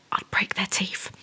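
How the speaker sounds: slow, unvoiced, deadpan whisper; menacing whisper. Real, not acted. Joking about what she'd do to an insulter, menacing whisper. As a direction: threaten it quietly and slowly.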